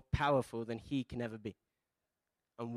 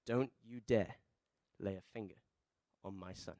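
understated fatherly threat, sinking lower and quieter; protective dad; 4 semitones lower, 3 dB quieter than usual. Retold or imitated. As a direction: imitate a dad's low warning, dropping softer to the end. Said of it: "put him up against the wall and said".

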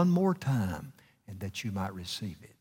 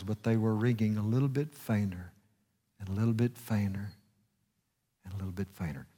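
fading away; 3 semitones lower, 6 dB quieter, faster than usual. Acted. Bells fading, voice fading.

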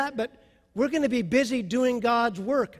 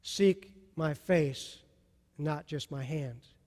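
tender call; 5 semitones lower, 5 dB quieter, slower than usual. Retold or imitated. Voicing God's call.

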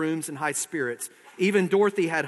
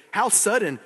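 flustered stalling; 5 semitones higher, 4 dB louder than usual. Acted.

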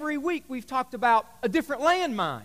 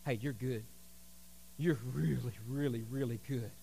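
false praise; 13 semitones lower, 13 dB quieter than usual. Retold or imitated. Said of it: "has told them".

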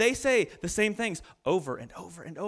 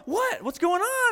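startled wife; 11 semitones higher than usual. Retold or imitated. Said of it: "she's like".

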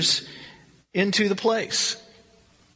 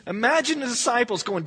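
ordinary talk

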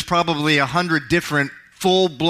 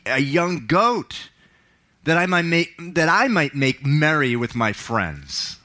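resentful son; 3 semitones higher than usual. Acted. Older son complains bitterly.

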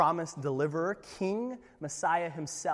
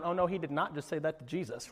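shocked onlooker; 6 dB quieter than usual. Retold or imitated. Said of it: "someone in the crowd going".

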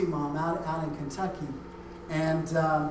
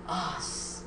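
ordinary delivery

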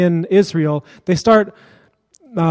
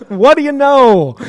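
sarcastic; 7 semitones higher, 4 dB louder, slower than usual. Real, not acted. Sarcastic aside after story.

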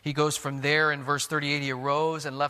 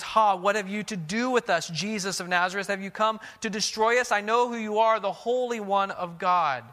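demon crying out; 4 semitones higher, 4 dB louder than usual. Acted. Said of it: "this demon cries out from this man".

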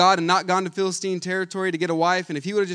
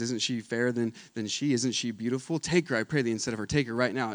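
soft, coaxing temptation much softer; tempting lure; 6 semitones lower, 6 dB quieter than usual. Retold or imitated. Temptation coaxing Samson toward the sister, soft and tempting. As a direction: lure him in quietly like temptation.

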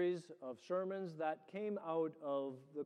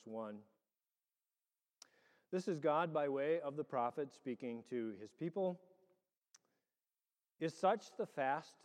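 measured, solemn scripture reading. Acted. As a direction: read the lesson to the congregation.

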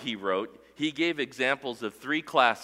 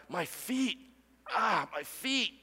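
higher, strained cry of pain, lightly acted; high mock cry of pain; 10 semitones higher than usual. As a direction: moan about the feet like someone pierced. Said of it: "did he cry out".

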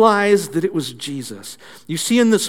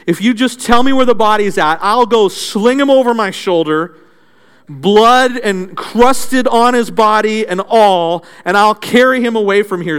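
louder, determined declaration; bold; 3 semitones higher, 5 dB louder than usual. Acted. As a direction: announce it bravely, chin up. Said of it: "bravely announces".

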